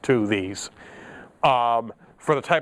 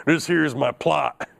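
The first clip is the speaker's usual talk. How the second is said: slow, lightly put-on cowboy drawl; H W Bodie, cowboy accent; 2 semitones higher, slower than usual. Teacher playing inventor in ten-gallon hat, cowboy accent. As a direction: play a big-hat Southerner, drawling slowly. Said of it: "sounds like H W Bodie in a big ten-gallon hat".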